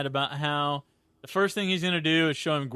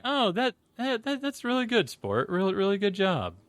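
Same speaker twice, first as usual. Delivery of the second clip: higher, upbeat dad-style praise; mild imitation of a cheerful coaching dad; supportive and encouraging; 5 semitones higher than usual. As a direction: pat a kid on the back with your voice. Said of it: "his tone immediately changes to".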